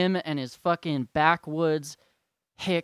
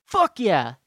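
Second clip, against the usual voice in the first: cheer; 4 semitones higher, 6 dB louder than usual. Real, not acted. Cheering in the middle of rant.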